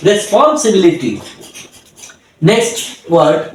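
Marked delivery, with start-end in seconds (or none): 0.1-1.1 "রেসপন্সিবিলিটি" said whole in one go; একবারে উচ্চারণ. Shown as a demonstration. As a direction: say "রেসপন্সিবিলিটি" as one connected word. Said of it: "যদি আমরা একবারে বলি". ("রেসপন্সিবিলিটি" একবারে টানা উচ্চারণ)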